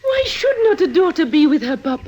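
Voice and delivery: pleading through tears; hurt and begging, crying; tearful plea. Acted. Daughter pleads to stay.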